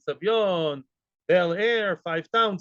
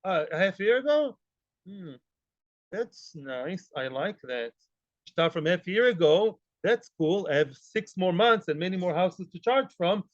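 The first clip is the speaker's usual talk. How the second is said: sly scheming lender. Retold or imitated. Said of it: "the Malveh says".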